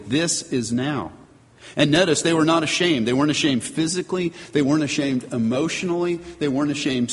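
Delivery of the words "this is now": "This is now" drawn out slowly, each word weighted; slow emphatic "This is now". Retold or imitated. Preacher voicing Adam's wonder at Eve, slow emphatic. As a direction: let "This is now" land slowly with full emphasis. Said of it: "he said very emphatically".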